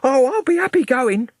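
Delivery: hint at a secret; enigmatic Smith. A narrator's reading. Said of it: "said Smith enigmatically".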